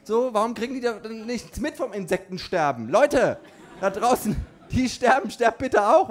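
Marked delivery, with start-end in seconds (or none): 2.9-6.1 louder, higher ranting call-out; mock yell. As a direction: shout it out to the insects in mock outrage. Yelling at insects in rant. (gespielter Ausruf, höher und lauter)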